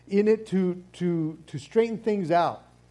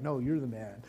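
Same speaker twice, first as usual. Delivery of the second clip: casual praise back; 4 semitones lower, 8 dB quieter than usual. Pretend. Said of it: "It's like".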